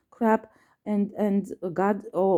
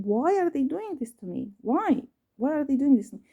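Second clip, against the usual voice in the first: retold exasperated plea, higher pitched; upset questioning; 5 semitones higher than usual. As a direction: demand an answer, voice lifting. Retold upset pleading question to Jesus.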